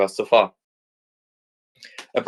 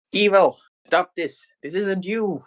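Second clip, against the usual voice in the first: raised, slow earnest plea; pleading heroine; 9 semitones higher, slower than usual. Acted. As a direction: beg your twin to stop. Nero pleads with twin.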